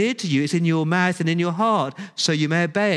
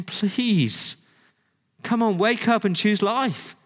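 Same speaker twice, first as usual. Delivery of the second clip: urgent, higher-pitched plea; pleading; 6 semitones higher, slower than usual. Retold or imitated. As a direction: plead with them, voice lifted and pressing. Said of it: "he's just pleading with his people".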